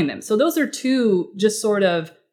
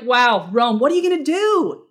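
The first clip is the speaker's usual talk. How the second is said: mock eager interest; 4 semitones higher than usual. Eager follow-up question.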